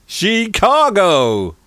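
slow, high, loud mock Chicago; drawled Chicago accent. Host saying Chicago in a drawled mock accent. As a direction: stretch out Chicago like a local. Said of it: "Is that your Chicago accent?".

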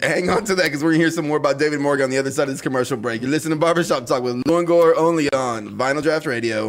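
upbeat radio break announcement; radio host tease. Real, not acted. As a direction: throw to commercials like a radio host.

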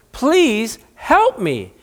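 slow, drawn-out plea for help; pleading. Acted. The Canaanite woman begs Jesus, slow pleading. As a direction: stretch it out, begging.

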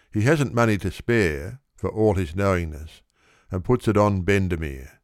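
plain reading voice

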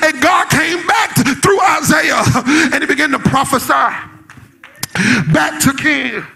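driving sermon storytelling in punched phrases; preaching. Real, not acted. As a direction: tell the scripture with preacher's urgency.

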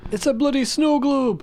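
high, slow mock Scottish accent; a hammy Scottish accent, Desmond-style; bad Scottish accent. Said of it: "the worst Scottish accent I've ever done".

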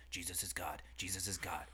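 hushed whisper, chanting it; whispered mantra. Retold or imitated. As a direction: breathe it like a secret mantra.

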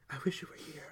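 breathy, voiceless whisper. Acted. Heroine whispers longingly to him over the phone, whispered. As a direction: whisper it, barely audible. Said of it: "I whisper".

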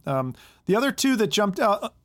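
strained, losing his voice; talking on a voice that's going. Real, not acted. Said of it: "I'm losing my voice here a little bit".

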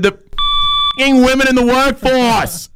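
high, drawn-out mock wail; tearful outburst. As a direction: blurt it like a man breaking down. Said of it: "And he said".

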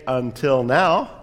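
slow, deadpan comeback; dry retort. Retold or imitated. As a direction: say it slowly, bone dry. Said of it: "resisted the urge to say".

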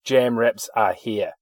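slow mock poster announcement. Recalling a shop poster, mock slow announcement. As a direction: read it like a big proud announcement. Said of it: "it was an announcement".

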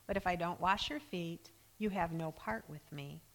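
Jesus answering Peter, quiet and calm; calm reply. Retold or imitated. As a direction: settle it gently and firmly. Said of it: "Jesus calmly replies".

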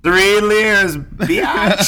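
loud, high hype-man yell; hyped shout. Pretend. Hyped joke boast.

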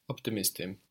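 optimistim with only light weight on MIS; gentle accent on the "mis" of optimistim; light stress before im. Shown as a demonstration. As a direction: say optimistim evenly, barely stressing "mis", falling at the end. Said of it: "stress in Turkish is very light".

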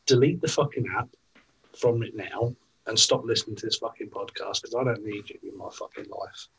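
heated swearing rant; swearing tirade. Real, not acted. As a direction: rant at the bad shops. Rant against bad vape shops.

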